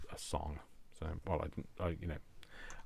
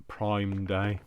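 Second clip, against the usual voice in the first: odd delivery; 8 dB louder than usual. Acted. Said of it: "Don't know why I said it like that".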